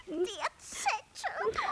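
slow, crying plea with a rising end; drawn-out pleading. Acted. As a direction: stretch it out begging. Crow urges about the note.

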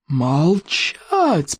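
roaring. A narrator's reading. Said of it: "проревел вождь берсерков".

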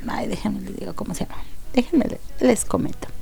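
fast whispered aside; hushed, rushed aside to viewers. Real, not acted. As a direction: mutter it to yourself, hushed.

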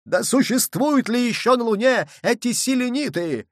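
high, contrary challenge; heated snarling question. A narrator's reading. Nicholl contradicts Michel about Moon dwellers, high angry question. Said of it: "зарычал Николь".

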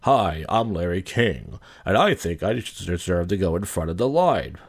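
slow, lightly voiced celebrity impression; Larry King. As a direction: draw it out in a slight put-on voice. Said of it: "Does he sound like Larry King?".

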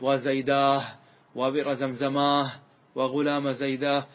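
"وزيداه، وبئر زمزماه، وغلام زيداه" each ending in long aa plus h; pausal ha endings. Shown as a demonstration. Teacher asking where the ha came from, breathed -aah endings on "وزيداه، وبئر زمزماه، وغلام زيداه". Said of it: "هذه الهاء من أين جاءت".

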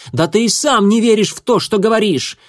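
put-on a defiant young she-cat, straight to the point. A narrator's reading. A former apprentice explaining herself to the leader, bluntly.

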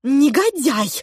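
put-on girl yelling at a villain; shouting. A narrator's reading. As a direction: fling the insult at him. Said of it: "закричала она".

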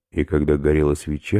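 normal talking voice

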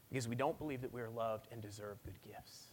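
soft, unvoiced whisper. Pastor whispering to the congregation about feeling unloved. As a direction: hush it like a confession. Sermon drops to a hush.

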